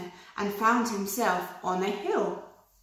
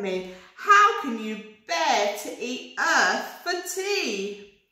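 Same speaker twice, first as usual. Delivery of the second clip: rhyming rabbit reciting. Acted. Rabbit reciting a poem to the worm, sing-song. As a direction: recite it like a proud little poet.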